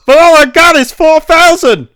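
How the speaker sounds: high, loud, shocked outburst; shocked squeal. Retold or imitated. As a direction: shriek it out in disbelief. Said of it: "Vi just goes".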